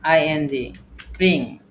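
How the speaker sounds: এসপিআর আইএনজি spelled very slowly, letter by letter; slow spelling. Shown as a demonstration. Teacher slowly spelling এসপিআর আইএনজি for the class. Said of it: "spelling letters slowly for class".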